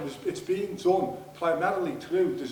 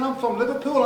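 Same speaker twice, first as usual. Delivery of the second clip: shouted much higher and louder, real anger; angry shout; 9 semitones higher, 9 dB louder than usual. Real, not acted. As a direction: bellow it out in genuine fury. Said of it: "I'm angry for you".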